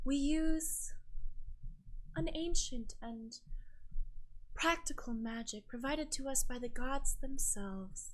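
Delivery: measured, gently smiling priestess; gentle island sister. Acted. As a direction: explain sacred magic with halting reverence. Smiles gently and she goes.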